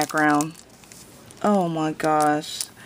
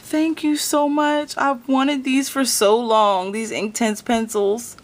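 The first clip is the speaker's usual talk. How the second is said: overwhelmed thanks in a raised pitch; real choked-up gratitude; about to cry; 6 semitones higher, 4 dB louder than usual. Real, not acted. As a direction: gush with tears close behind. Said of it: "about to cry".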